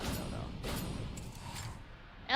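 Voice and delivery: whispered aside. Real, not acted. Trailing doubt to himself.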